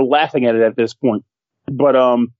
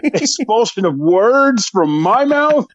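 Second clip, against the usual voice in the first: hammed-up indignation; 4 semitones higher, much slower than usual. Hammed-up mock offense.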